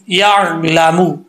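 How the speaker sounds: drawn out या ला मू, each syllable stretched; slow recitation. Shown as a demonstration. Teacher slowly reciting Arabic to students, drawn out. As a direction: chant या ला मू slowly like a Quran teacher. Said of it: "अब मीम को मू नहीं पढ़ना".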